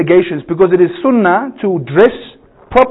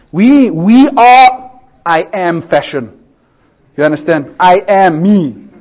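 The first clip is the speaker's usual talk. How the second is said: mock grand boast; slower than usual.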